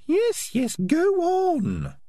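very high, impatient falsetto; exasperated Peaches. Acted. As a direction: hurry him along with squeaky weariness. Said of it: "Peaches rolled her eyes".

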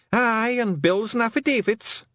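high, slow Scottish clansman; dread-filled Scots voice; worried Feegle. Acted. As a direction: intone the horror item slowly. Another Feegle adds a dreaded item.

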